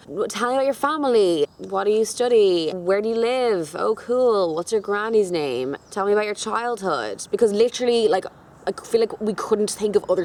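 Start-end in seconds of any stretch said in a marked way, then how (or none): 0.1-7.3 reeling off stock questions to a stranger on an awkward date; awkward small talk. Retold or imitated. Imitating stiff first-date small talk. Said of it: "like, that awkward".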